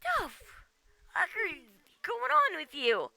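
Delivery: high, slow, drawn-out disbelief; incredulous mock outburst. To a guildmate who formed a group, high appalled disbelief. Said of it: "And I'm just like".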